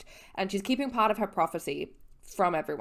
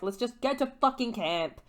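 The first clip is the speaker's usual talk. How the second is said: higher, irritated snap; the first, more heated take; annoyed Annabeth; 5 semitones higher than usual. Retold or imitated. Annabeth annoyed at Percy, heated snap. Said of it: "she's like".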